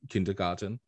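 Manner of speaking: KINDERGARTEN with an Austrian accent, R's dropped; Arnold's German-accented pronunciation. Shown as a demonstration. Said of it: "Arnold never pronounced kindergarten as in".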